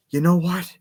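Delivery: mock-theatrical setup to a jibe; lightly hammed-up villain; imitated Robotnik. Acting out Robotnik before sarcastic thanks.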